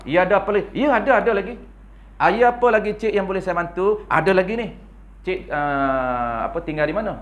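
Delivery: mock a woman operator who sways her voice to charm; sultry phone operator. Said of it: "Oh, dia main lenggok".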